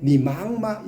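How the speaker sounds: mock Chinese tones. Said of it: "중국어는 올라갔다 내려갔다".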